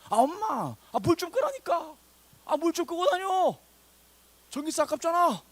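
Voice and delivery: high, loud, exasperated nagging; nagging grown child. Acted. Grown child nags mother about wasting electricity, exasperated and high. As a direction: scold mom in a hammed-up high voice. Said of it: "부모님에게 잔소리하는 시즌이 와요".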